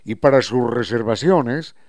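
lightly warm, upbeat spot for a restaurant; host reads a live ad for Costa Sierra, upbeat; radio ad read. Acted. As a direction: sell the place like a radio host plugging a sponsor.

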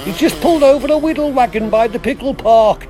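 trucker calling over the CB; radio call, trucker patter; CB radio trucker lingo. Acted. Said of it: "I love the lingo".

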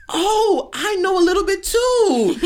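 high, slow mimicry of fiance; mimicking fiance showing off at massage parlor; mock fiance voice. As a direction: pitch way up, mocking the fiance.

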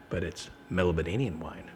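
lightly voiced ominous game master. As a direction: drop low to hint at danger. Game master warns players.

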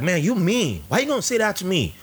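high, offended mock recruit; hurt bragging recruit. Mimicking the recruit answering his teasing, high and wounded. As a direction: whine then boast that you could kill a lion. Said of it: "he's like".

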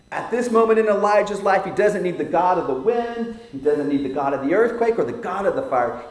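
loud, high and driving; forceful preaching. Acted. Preacher booming about wind, earthquake and fire. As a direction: build it like the storm.

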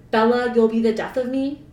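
sour. Acted. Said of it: "I quoted sourly".

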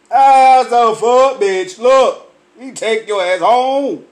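loud, slowed scolding; scolding shout. Pretend. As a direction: bark her off the street, home. Telling woman off on street.

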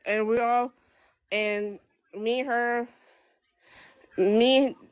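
real halting stammer with restarts; stuttering. Real, not acted. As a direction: stumble over the words, pausing between broken phrases. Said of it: "it sounds like I'm stuttering".

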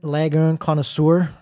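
put-on playful touch of French accent. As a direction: lay a French accent on the words. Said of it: "enough of a French accent on that".

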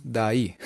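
"daí" said slowly, like día with the letters swapped; pronunciation demo. Shown as a demonstration. Teacher shows how day sounds, slowly. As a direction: stretch "daí" out slowly, ending on a glide. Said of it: "en vez de decir día, decimos".

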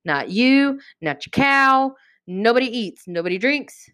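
imitating a king laying down rules, starting high; explicitly specific. The king bans food and drink for all, explicitly specific. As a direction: list each ban pointedly, in a lightly acted decree. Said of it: "explicitly specific about".

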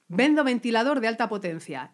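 loud robotic ad read. Acted. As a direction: announce it like a robot. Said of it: "a ver cómo lo haces tú".

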